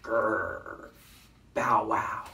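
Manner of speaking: lightly voiced dog growl and bark; a hint of a dog, in words; dog noises. A narrator's reading. Dog in the story, lightly growling and barking. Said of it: "the dog is saying".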